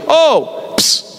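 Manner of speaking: offhand "ô, ps" call to a nameless stranger; calling strangers with a psst. Retold or imitated. A preacher mimics calling out to strangers, offhand psst calls. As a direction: hiss "ps" to get someone's attention without knowing their name. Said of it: "Jesus não fala assim com a gente".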